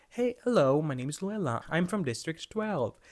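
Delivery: bright robotic hello, high start; chirpy scripted greeting like a programmed girl; mock cheerful greeting. Woman repeating her scripted greeting, mock chirpy. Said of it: "she's like".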